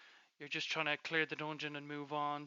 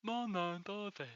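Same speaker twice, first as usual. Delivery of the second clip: slow lisping voice; 4 semitones higher, slower than usual. Retold or imitated. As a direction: imitate a lisp. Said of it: "like, a lisp or some fucking big tongue".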